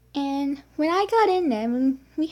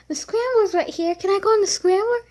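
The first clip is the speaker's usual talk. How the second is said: higher, quicker pleading to parents; eager plea; 7 semitones higher, 6 dB louder than usual. Retold or imitated. Kid asking parents for the scrambler, eager high plea. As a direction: beg to go on the easy ride. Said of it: "So I'm like".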